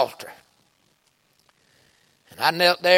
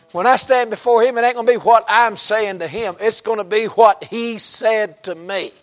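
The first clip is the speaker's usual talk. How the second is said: raised, louder, emphatic sermon voice; forceful preaching; 4 semitones higher, 4 dB louder than usual. Real, not acted. Preacher asking the church for a witness, forceful preaching. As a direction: press the point home to the congregation.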